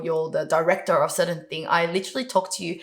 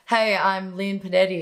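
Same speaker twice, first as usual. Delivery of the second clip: dull, unenthused intro; bored monotone hello; flat and boring. Shown as a demonstration. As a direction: introduce yourself with no spark at all. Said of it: "it's so flat and it's just boring".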